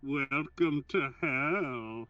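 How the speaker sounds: slow villain voice muffled through a cup; Bane voice. Acted. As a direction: growl it slowly into a cup like a masked villain. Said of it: "trying to do a rip-off Bane voice".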